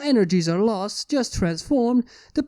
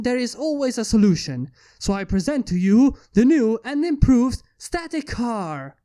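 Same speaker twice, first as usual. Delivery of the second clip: lightly voiced proud inventor addressing a crowd; a hint of grand podium oratory; Steam Lord's speech. Inventor speaking to the crowd from the podium, lightly proud.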